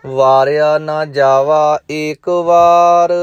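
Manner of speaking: slow, measured chanting recitation; gurbani recitation. Acted. Teacher reciting Japji Sahib to students, measured chant. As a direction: intone each line with devotion.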